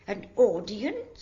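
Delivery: loud, rising question of disbelief; "An audience?" thrown back loud and rising in surprise; surprised question. Acted. Nurse echoing the girl's request, startled.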